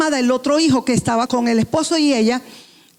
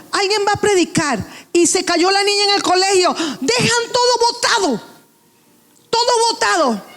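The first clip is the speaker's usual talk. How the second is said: a touch of a fed-up churchgoer, higher; hammed-up complaint, pitched up; lightly voiced frustrated member; mock exasperated rant; 5 semitones higher than usual. Mocks church dropping everything.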